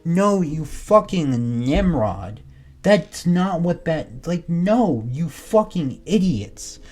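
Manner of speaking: very slow, drawn-out scolding; slow exasperation. Real, not acted. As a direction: stretch every insult out in disgust. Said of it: "it makes me frustrated".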